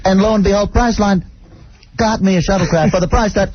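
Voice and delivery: William Shatner. Pretend. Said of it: "is William Shatner here to do, uh, Priceline dot com".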